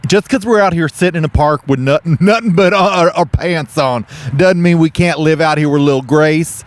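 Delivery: hammy folksy TV host; Southern cooking show hosts. Pretend. Two hosts pitch a turkey to viewers, folksy Southern.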